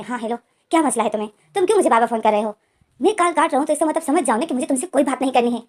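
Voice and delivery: annoyed, rising to a fast loud complaint; angry on the phone. Acted. Ivo angrily answers Jain's repeated calls, loud and fast. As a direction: snap at the caller who keeps ringing. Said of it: "गुस्से में बोलता है".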